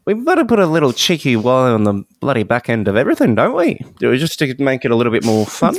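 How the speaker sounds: fast, hammed-up broad Australian accent. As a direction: rattle it off like a caricature Aussie bloke. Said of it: "sounding like an Australian person doing an Australian accent".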